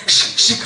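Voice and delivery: amused double puff sound; cartoon whooshing. Shown as a demonstration. Preacher showing angry God's smoking nose, playful whooshing. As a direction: imitate puffs of smoke through laughter. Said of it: "하는 모습".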